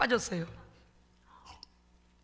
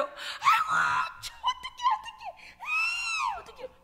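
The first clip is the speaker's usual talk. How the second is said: mock wailing; much slower than usual. Retells wailing in prayer.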